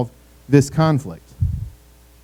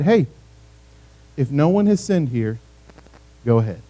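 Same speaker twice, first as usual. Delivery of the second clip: gentle words; 3 semitones lower than usual. Retold or imitated. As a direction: let it fade gently, no edge. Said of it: "He used gentle words".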